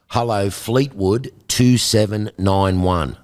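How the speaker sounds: slow, careful, proper telephone answer; formal phone greeting. Retold or imitated. Answering the home phone the proper way, slow and formal. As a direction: announce the number like a polite switchboard. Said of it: "You had to answer the phone".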